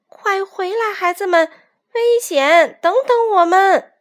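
high, urgent shout after them; loud calling. A narrator's reading. Older roosters calling the youngsters back, urgent shout. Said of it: "只好大声喊道".

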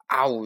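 loud "a-woo" of a bite; chomping noise. A narrator's reading. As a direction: imitate one big greedy chomp. Narrator imitates a big bite.

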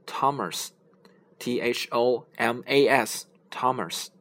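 Thomas with a plain t and silent h; model name. Shown as a demonstration. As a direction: say Thomas slowly with a hard t. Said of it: "这个H是不发音的".

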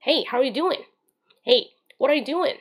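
slow, rising "Hey, how are you doing？" with a native "doing"; doing said right. Shown as a demonstration. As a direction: stretch out "doing" the American way, easy and friendly. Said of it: "一定要把这个doing发作doing". (慢慢说出地道的"doing")

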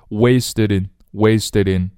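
"wasted in" run together as "waste-i-din"; linked words. Shown as a demonstration. Teacher drilling learners on linked "wasted in". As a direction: carry the d of "wasted" into "in". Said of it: "连起来".

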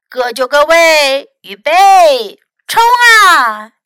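loud race-start call, building to the last word; rising, shouted starter's count; cried out. A narrator's reading. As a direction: call runners to the line, then launch them. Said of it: "cried Fox".

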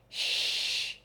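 soft hushed shush; whispering. Acted. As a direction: hush them in a whisper. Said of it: "she whispered".

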